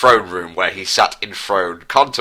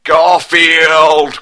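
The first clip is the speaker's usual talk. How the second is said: high, loud shout to the sky; furious shout; 8 semitones higher, 8 dB louder than usual. Acted. Prince curses the cat who killed his brother, furious shout. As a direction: shake a fist and howl the name. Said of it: "cried out Prince Harry with fist to the sky".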